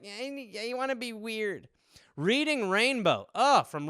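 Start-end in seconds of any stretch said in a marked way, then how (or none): 0.0-1.7 much softer awkward mumble; unsure how to act with a passenger; awkward aside. Retold or imitated. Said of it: "I'm like".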